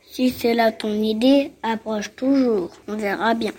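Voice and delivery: bouc grave et défiant; défie le troll d'une voix grave; grosse voix de bouc. Acted. (grosse voix de bouc défiant)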